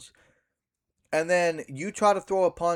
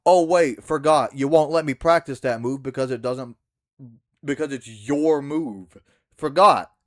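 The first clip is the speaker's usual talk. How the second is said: sarcastic; 3 semitones lower, 4 dB louder than usual. Real, not acted. Mocking E's selfish rule.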